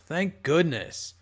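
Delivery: slow, sighing relief; relieved sigh. Acted. Hungry pony relieved at the offer of a coat, sighed. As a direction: breathe it out in relief. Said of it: "I sighed".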